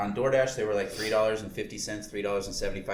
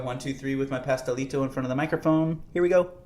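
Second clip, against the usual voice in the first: excited countdown; 5 semitones higher, 7 dB louder than usual. Real, not acted. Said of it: "building up to the bite".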